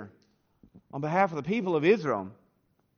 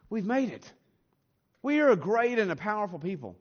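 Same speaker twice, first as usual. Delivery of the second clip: smug boasting; 5 semitones higher than usual. Retold or imitated. Israel waving off Amos's warning, smug and boastful. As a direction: brag like a proud nation with nothing to fear.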